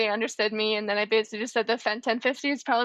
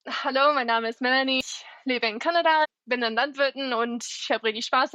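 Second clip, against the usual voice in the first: speaking German. Shown as a demonstration. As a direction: switch into her native German, chatty and relaxed. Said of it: "would you be able to speak a little bit of German".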